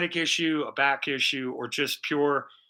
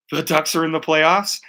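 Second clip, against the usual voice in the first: louder, stunned question; shocked disbelief; 7 dB louder than usual. Retold or imitated. Man telling wife he spotted his team, loud surprised disbelief. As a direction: blurt it out like you can't believe your eyes. Shocked to see Ducks listed.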